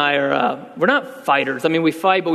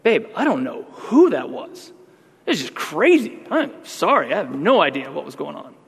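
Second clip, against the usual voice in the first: sheepish apology. Retold or imitated. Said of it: "I would say".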